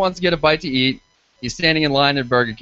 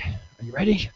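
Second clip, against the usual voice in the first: mock seductive ask; 6 dB quieter than usual. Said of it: "I'm like".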